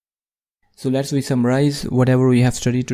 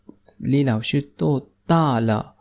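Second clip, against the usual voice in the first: "李老师多大了?" spoken slowly, syllable by syllable, for learners; slow, careful model reading; slower than usual. Shown as a demonstration. Teacher models the question slowly for students, slow and clear. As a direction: lay out each word of "李老师多大了?" clearly. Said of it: "teacher repeats the question slowly".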